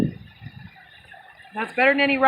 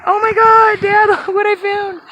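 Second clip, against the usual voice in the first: higher, loud, laughing call; giddy excited call; 6 semitones higher, 7 dB louder than usual. Real, not acted. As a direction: call out overjoyed. Calling to absent dad.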